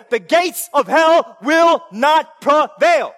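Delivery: slow, loud, punching each word; shouted proclamation. Acted. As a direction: thunder God's answer. God's answer shouted.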